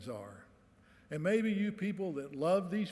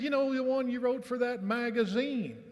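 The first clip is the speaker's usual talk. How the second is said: put-on old vet's voice; 8 semitones higher, 4 dB louder than usual. Old vet quoted, high and loud.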